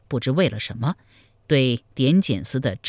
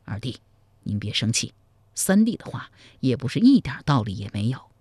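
hurried soothing; 3 semitones lower than usual. Acted. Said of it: "赵普慌忙劝道".

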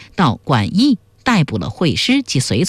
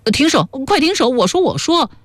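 broken pleading; 9 semitones higher than usual. A narrator's reading. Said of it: "终于抵受不住那种酥麻入骨的折磨".

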